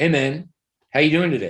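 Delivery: low-key, flat falling tune on "doing today". Speaker demonstrates a casual greeting to a friend with flat falling intonation. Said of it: "Flat going down, not high going down".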